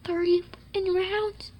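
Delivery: breathy whisper, a bit slow; whispered aside to himself. Acted. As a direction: breathe the count under your breath. Repeats the count, whispered first.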